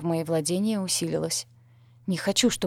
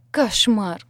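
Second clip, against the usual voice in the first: loud groaning moan; 3 semitones higher, 6 dB louder than usual. A narrator's reading. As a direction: moan it out in exhaustion. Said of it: "простонала она".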